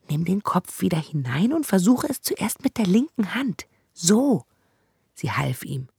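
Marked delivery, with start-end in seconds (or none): 0.1-4.4 a hint of a bossy young girl, higher; brisk girl giving instructions, a bit higher; lightly voiced girl. Zora coaches Branko through the bars, slightly higher girl voice.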